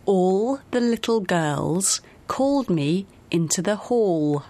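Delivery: put-on slow model reading, clear L in ALL, LITTLE, GIRLS, HALL; L practice sentence. Shown as a demonstration. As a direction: stretch each final L in ALL and HALL. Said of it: "那就试着练习这个句子".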